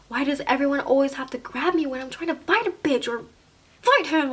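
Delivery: mock-exasperated protest, rising at the end; frustrated complaint. Girl held back from a fight, frustrated complaint. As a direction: gripe with growing agitation.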